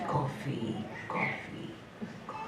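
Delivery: coffee softening to breathless whispers; fading to a whisper. Acted. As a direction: let the chant die away. Chant fading out.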